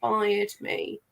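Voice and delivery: flat, emotionless delivery with a sore throat; deadpan, no emotion whatsoever. Real, not acted. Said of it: "really deadpan voice with the accent".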